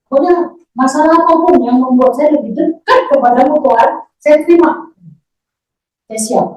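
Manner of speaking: re-enacted vow, driven hard; emphatic prayer vow. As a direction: declare full surrender to God with rising force. Same prayer, now said forcefully.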